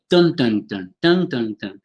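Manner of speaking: "dun, dun, dun" as an uneven English beat; stress-timed rhythm. Shown as a demonstration. Teacher showing the class English rhythm, stress-timed beat. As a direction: beat out "dun" with strong and weak pulses. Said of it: "stress timed is like English, where it's like".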